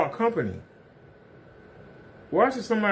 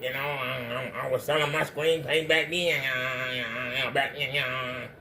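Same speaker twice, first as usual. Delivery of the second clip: lightly voiced rambling old man, a touch softer; a hint of a forgetful old-timer reminiscing; mock old man; 4 dB quieter than usual. Mocking Kenny as a forgetful old man, lightly voiced old-timer. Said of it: "that's how you sound, like an old ass man".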